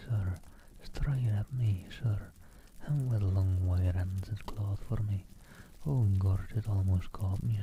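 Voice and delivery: soft, shaken, a touch of terror; a scared man pleading quietly, understated; frightened wail. Acted. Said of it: "wailed Tippet".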